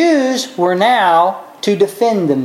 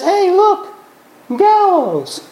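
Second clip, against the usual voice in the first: high, cheerful pointing out; a servant casually noticing, pitched high throughout; offhand eunuch; 11 semitones higher, slower than usual. Retold or imitated. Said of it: "looks out a window and says".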